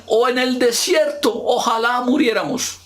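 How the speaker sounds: the Israelites crying out in despair, shouting. Acted. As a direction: shout it like a desperate people. Crowd crying out in verse.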